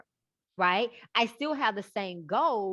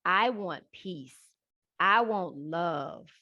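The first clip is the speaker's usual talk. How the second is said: slow, measured inner mantra; calm self-talk choosing peace; 3 semitones lower than usual. Retold or imitated. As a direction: say each want slowly and calmly. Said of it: "I am thinking".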